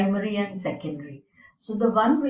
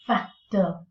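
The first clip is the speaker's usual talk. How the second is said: factor with FAC stressed; FAC-tor, second syllable light; first-syllable stress. Shown as a demonstration. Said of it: "the first syllable is stressed".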